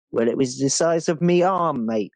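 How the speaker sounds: lightly put-on English accent; a hint of a cockney bloke; half-hearted English accent, me arm mate; mock English accent. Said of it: "that weird half-assed English accent".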